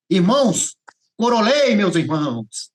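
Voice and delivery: high, loud proclamation to the brethren; re-enacted jubilant cry; exultant announcement. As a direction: proudly announce it to a congregation.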